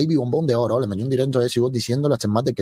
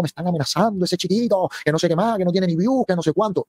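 higher whiny mock of a self-pitying streamer; mock victim voice; 7 semitones higher than usual. Streamer mocking her rival's victim act. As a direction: play the victim, whining. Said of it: "cómo se victimizó".

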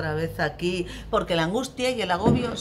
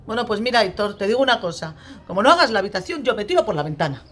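exasperated threat; 3 semitones higher, 6 dB louder, faster than usual. Acted. Parent threatening Aitor over the messy room, loud exasperation. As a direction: burst out at the end of your patience.

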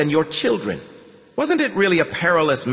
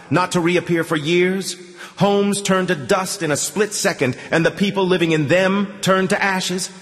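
put-on old priest's swelling menacing rant; menacing, building; 6 semitones higher than usual. A narrator's reading. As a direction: build into a prophet's thunder. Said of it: "more convincing and menacing than the last".

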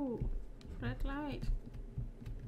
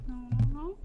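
louder panicked repeated no; frightened; 3 semitones lower, 6 dB louder than usual. Real, not acted. Player panicking as something creepy happens, afraid. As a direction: blurt it out in alarm.

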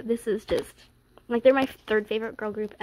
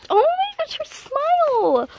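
much higher, loud, slow gushing squeal; fangirl scream; 6 dB louder than usual. Real, not acted. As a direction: melt over her smile out loud. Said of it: "I'm trying not to scream".

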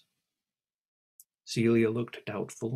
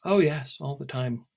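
careless; 3 semitones higher, 5 dB louder than usual. Acted. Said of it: "replied Celia carelessly".

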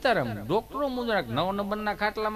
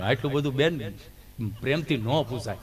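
lower, giggling protest; shy friend; 7 semitones lower than usual. Retold or imitated. Gabho protesting to the nurse, lower bashful giggle. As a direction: protest bashfully through a laugh. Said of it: "Gabho".

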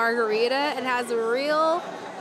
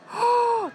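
gasp; 12 semitones higher than usual. Real, not acted. Sees Hogwarts from the bar.

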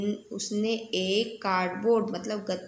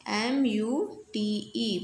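slow spelling; much slower than usual. Shown as a demonstration. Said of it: "spells the word".

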